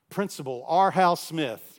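loudspeaker call. Retold or imitated. Principal announcing himself over the school loudspeaker, loud.

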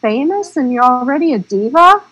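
mock disbelief at a diva; retelling an eye-rolling reaction to a no-show actor; incredulous scoff. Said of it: "I'm like".

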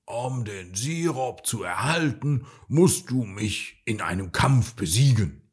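a lightly voiced dragon roar; a touch of a bellowing dragon. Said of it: "brüllte der Drache".

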